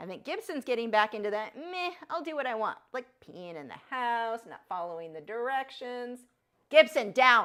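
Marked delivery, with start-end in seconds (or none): 6.7-7.5 very loud, mean, stern voice. Ordering the dog Gibson to get down, in a mean mom voice. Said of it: "I have to use mean mom voice".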